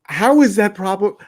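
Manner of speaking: replaying how fed up she was, voice climbing; exasperated disbelief. Retold outburst at online critics.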